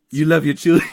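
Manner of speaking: a touch of Stewie creeping into Tyrion; lightly voiced cartoon baby, laughing; accidental Stewie voice. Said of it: "I'm doing the Stewie voice".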